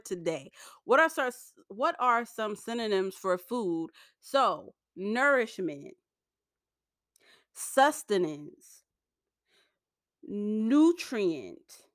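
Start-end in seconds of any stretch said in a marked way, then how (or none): 5.0-11.8 lisping on the S words; careful lisped S sounds. Real, not acted. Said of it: "excuse my lisp because I'm really trying so hard to pronounce these".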